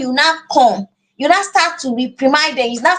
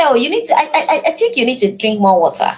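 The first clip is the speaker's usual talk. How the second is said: gentle suggestion; 2 semitones lower than usual. Shown as a demonstration. Mother gently nudging child to drink water, tender. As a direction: suggest it kindly, almost smiling. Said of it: "But when you say".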